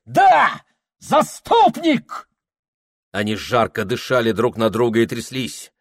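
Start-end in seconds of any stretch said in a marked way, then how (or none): 0.0-2.3 high, slow shout back; defiant shout. A narrator's reading. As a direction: throw it back at him.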